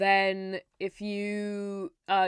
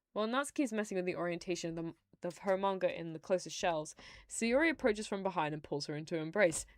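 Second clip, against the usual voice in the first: soft, lightly read-aloud narration; story narration; 6 dB quieter than usual. A narrator's reading. Streamer reading visual novel text to viewers, soft narration. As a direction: read the scene out quietly and evenly.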